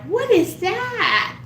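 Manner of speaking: high, slow, drawn-out shocked question; shocked mom. Retold or imitated. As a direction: play the stunned mother catching it. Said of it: "And my mom was like".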